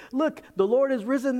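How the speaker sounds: high, loud, breaking the news; excited disciples. Acted. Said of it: "These disciples are excited".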